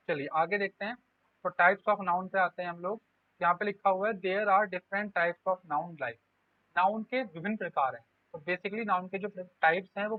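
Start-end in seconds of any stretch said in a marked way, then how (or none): 4.1-6.2 very slow, each word set apart; slow reading aloud. Shown as a demonstration. Teacher reading the board heading to the class, drawn-out. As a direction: read the line off the board slowly for students to copy.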